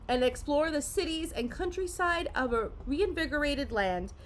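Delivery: measured promotional read; card-set blurb read aloud. Real, not acted. Parent reading the box text to kids, read-aloud style. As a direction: read it out like an inviting product blurb.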